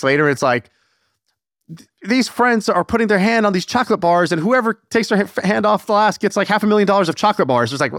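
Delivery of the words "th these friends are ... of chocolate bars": higher-pitched mock video presenter; hyped video host. Mocking a video about chocolate bars, high hyped host voice.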